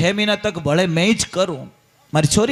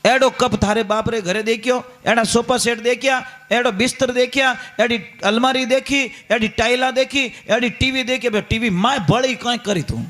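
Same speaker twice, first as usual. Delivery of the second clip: mock scolding mother-in-law; 3 semitones higher than usual. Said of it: "पूरो घर माथे ले लियो".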